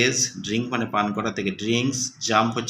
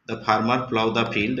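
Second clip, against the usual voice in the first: very slow, word by word; slow reading aloud; much slower than usual. Shown as a demonstration. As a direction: read each word slowly for pupils. Teacher reading example sentence. (ধীরে ধীরে পড়া)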